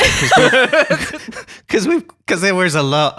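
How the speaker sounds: high, loud laughing restart; laughing stumble. Real, not acted. Host laughing while starting the intro. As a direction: giggle through the words.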